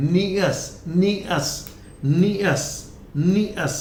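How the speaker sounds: "neous" said as nee-us, drilled in separate repeats; correct ending demo. Shown as a demonstration. Teacher drilling the word ending for learners, carefully pronounced. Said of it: "not neous".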